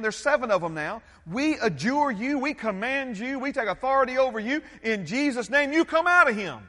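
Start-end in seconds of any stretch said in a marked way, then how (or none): 1.2-6.6 rising to a loud command; commanding exorcism. Retold or imitated. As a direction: order the demon out, building. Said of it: "they say to the demon-possessed man".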